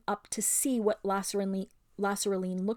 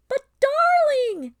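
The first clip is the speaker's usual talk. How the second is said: very high, slow, loud gushing; loud drawling darling; 12 dB louder, much slower than usual. A narrator's reading. Lasraleen to Aravis, loud slow gushing. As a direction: gush it out slowly and loudly. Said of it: "in the same loud voice".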